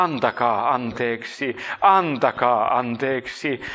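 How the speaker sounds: slow, drawn-out plea in own voice; quoted child's plea. Retold or imitated. Retelling a small child's testimony in prayer, slow plea. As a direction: stretch each word out slowly, imploring. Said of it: "se pieni lapsi sanoi".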